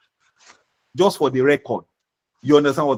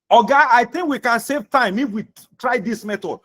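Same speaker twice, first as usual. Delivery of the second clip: gentle suggestion; 4 semitones higher than usual. Shown as a demonstration. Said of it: "a gentle way of bringing your opinion".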